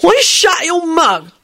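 put-on drunken, spiteful sneer; nasty, slurred. A narrator's reading. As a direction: slur it nastily, dragging the words. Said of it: "he added nastily".

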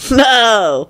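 happy chirp. A narrator's reading. Lupin cutting into Neville's story, happy chirp. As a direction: pop it in cheerily. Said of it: "Lupin chirped in happily".

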